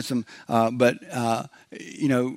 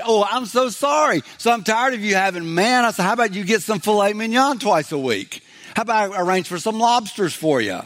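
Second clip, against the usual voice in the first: higher, mock-solicitous offer; sarcastic apology; 5 semitones higher than usual. Preacher pretending God offers lobsters to complainers, sarcastic. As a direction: pretend to be apologetic and eager to please.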